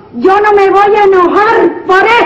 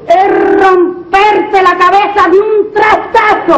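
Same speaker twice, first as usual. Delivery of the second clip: angry threat. Acted. Wife threatening husband.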